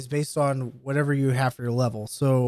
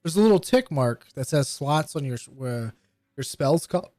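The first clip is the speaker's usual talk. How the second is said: talking through hiccups; words broken by hiccups. Real, not acted. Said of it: "excuse me, I have the hiccups".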